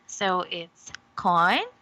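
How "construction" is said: "construction" split syllable by syllable, with gaps; broken into syllables. Shown as a demonstration. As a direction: say "construction" in separate pieces: con, struc, tion. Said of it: "how to syllabicate this word".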